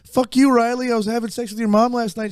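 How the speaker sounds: high-pitched hockey trash talk; Shoresy. Retold or imitated. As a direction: put on a high chirping voice for the insult. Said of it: "and he's like".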